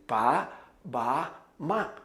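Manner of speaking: pá, ba, ma as separate open-A syllables; newborns' syllables. Shown as a demonstration. Teacher showing what newborns pronounce, pá, ba, ma spaced out. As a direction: demonstrate pá, ba, ma one by one. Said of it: "mas eles pronunciam".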